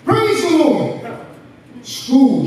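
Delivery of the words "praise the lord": high, drawn-out praise cry; imitated shout. Old woman praising God everywhere she goes, imitated shout. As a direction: proclaim it high, imitating a fervent believer. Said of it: "She'd always shout".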